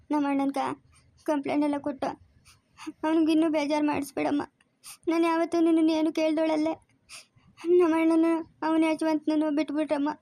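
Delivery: a woman crying as she pleads for her brother; tearful, imploring appeal; tearful pleading. Acted. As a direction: beg through tears. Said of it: "ಯಾಕಮ್ಮ ಅಳ್ತೀಯಾ?".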